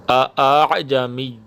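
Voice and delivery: اعجمی said very slowly, second hamza softened; slow demo of تسہیل on اعجمی. Shown as a demonstration. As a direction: glide gently through the second hamza of اعجمی. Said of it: "یہاں پر تسہیل ہے".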